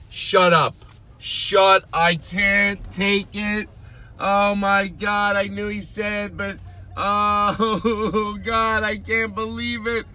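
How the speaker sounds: very high-pitched, drawn-out fan freak-out; hammed-up squealing excitement; overexcited fan. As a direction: shriek it out like you can't believe it. Acting out ecstatic fan hearing his name.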